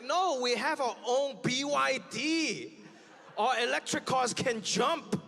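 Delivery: slow, smug put-on Chinese voice; mock Chinese buyer. Chinese buyer brushing off American cars, slow and smug. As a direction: brag slowly, unimpressed. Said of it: "They're like".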